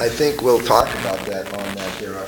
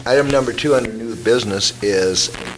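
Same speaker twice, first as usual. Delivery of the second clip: frog voice. Real, not acted. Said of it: "forgive me for my frog voice".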